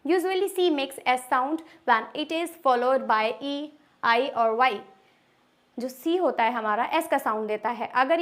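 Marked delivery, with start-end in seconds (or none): 0.0-4.7 slow rule reading. Shown as a demonstration. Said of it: "इसमें बताया हुआ है".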